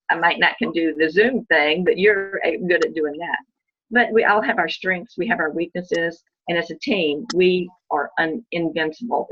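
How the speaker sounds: passionate, loud. Real, not acted. Passionate team speech.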